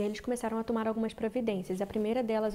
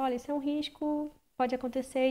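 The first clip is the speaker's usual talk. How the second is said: imitating the doctor; 4 semitones higher than usual. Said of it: "e ela falava".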